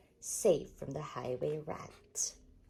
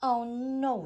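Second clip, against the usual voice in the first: a higher, louder rat exclaim; mock gloating rat; 8 semitones higher, 8 dB louder than usual. A narrator's reading. Highway rat snatching the leaf, gloating loudly. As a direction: crow it triumphantly.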